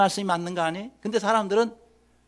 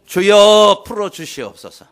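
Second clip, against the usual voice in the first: loud prayer cry; 11 dB louder, slower than usual. Shown as a demonstration. Preacher shows congregation how to pray, loud cry. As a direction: cry out "Lord", then drop. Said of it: "그래서 기도하시길 바랍니다".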